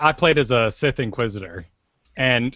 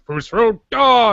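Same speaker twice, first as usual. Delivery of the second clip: high, loud, drawn-out creature cry; slow, raised mock creature utterance; cat-man voice; 8 semitones higher, 5 dB louder, slower than usual. Mocking game creatures sharing one voice, drawn-out mock creature voice. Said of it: "they're all going".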